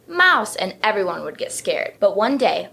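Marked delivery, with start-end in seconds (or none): 0.1-0.5 screamed warning. A narrator's reading. Jokester elephant scaring his family, high scream. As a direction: shout it to scare the family. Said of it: "Ronald would scream".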